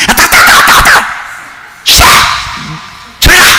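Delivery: put-on a kid squealing at a scratchy beard; mock childish protest; whiny child refusing. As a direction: imitate a girl pushing dad away, high and whiny. Daughter pushing away prickly beard.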